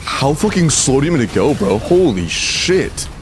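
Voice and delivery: exasperated outburst, drawn out on the final curse; real frustration. Real, not acted. Player fed up with being told to slow down, frustrated. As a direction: vent at the game, stretching the last words. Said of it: "Sorry, I'm getting frustrated".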